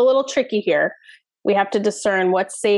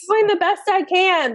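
strained inner voice; 9 semitones higher than usual. Retold or imitated. Inner voice of overwhelmed child.

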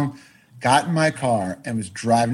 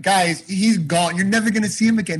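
insistent assurance; 5 semitones higher than usual. Retold or imitated. Retold insisting to executives.

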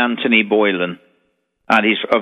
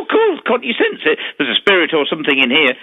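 quoting the lady; 4 semitones higher than usual. Retold or imitated. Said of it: "She said".

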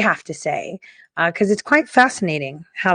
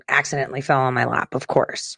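sly quiet aside; 5 semitones lower, 6 dB quieter, faster than usual. Real, not acted. Host confiding to viewers about the leaked data, whispered. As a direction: drop to a whisper for the ironic "of course".

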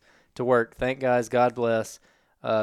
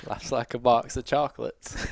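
Forrest Gump impression. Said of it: "what in the Forrest Gump is this".

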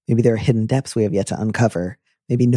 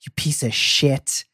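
genuinely angry. Shown as a demonstration. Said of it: "I can hear".

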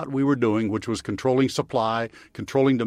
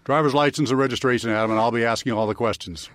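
stern cop commanding a driver; firm traffic-stop authority; police voice. Shown as a demonstration. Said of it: "Can you do the police voice at me".

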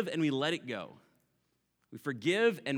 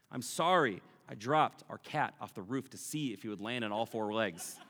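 laughing, suddenly loud on the punchline; laughing through a joke; 3 semitones lower, 5 dB louder than usual. Real, not acted. Joking apology about the cat, laughing and loud. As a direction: crack up mid-apology.

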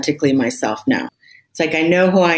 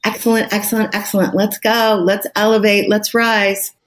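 higher, gentle self-encouragement, lightly cooed; tender encouraging voice; 4 semitones higher than usual. Shown as a demonstration. Coaching herself kindly in a pet voice, gentle coo. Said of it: "you have to use your tender voice".

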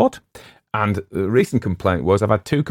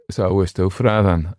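slow, lightly voiced Cumbrian local's question; a friendly Cumbrian pub regular, slightly drawn out; broad Cumbrian dialect. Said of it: "he wasn't as broad as this fella".

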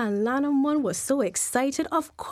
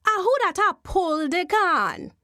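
eerie call, higher; Jumbie voice; 5 semitones higher than usual. Acted. Jumbie spirit calling to the wife pulling corn. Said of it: "and then a voice say".

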